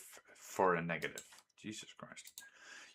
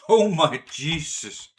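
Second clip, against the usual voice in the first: shocked cry; 7 semitones higher, 12 dB louder, slower than usual. Real, not acted. Train crash, he messed up.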